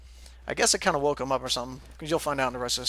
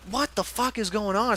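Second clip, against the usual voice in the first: higher, slow, drawn-out exasperation; exasperated; 6 semitones higher, slower than usual. Retold or imitated. Woken again by pounding on the door, exasperated. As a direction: stretch it out in disbelief.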